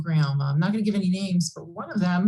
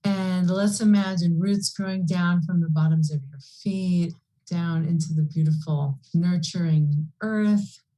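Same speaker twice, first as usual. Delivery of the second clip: guided meditation. Acted. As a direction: guide them gently into the earth. Leads a healing visualization.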